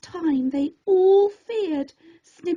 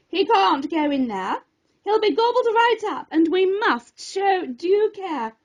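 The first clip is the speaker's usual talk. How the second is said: urgent professor; 4 semitones higher than usual. Acted. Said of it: "cried the prof".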